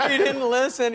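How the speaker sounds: high, put-on tearful wail; mock crying. Her children watching her cry on TV, exaggerated tearful whine. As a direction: imitate a weepy complaint. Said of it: "they just hold on her crying".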